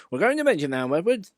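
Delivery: high, loud call; workman voice. A narrator's reading. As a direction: call out cheerfully. Workmen calling to engine.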